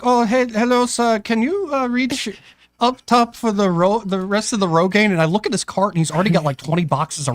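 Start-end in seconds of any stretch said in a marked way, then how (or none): 0.0-5.1 high, eager little voice; mock polite request, high; imitating the little guy. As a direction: mimic him asking politely, pitched up. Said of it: "He's like".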